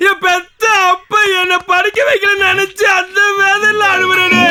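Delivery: tearful outburst; crying complaint. Acted. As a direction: cry it out loud. Crying, explains his sorrow.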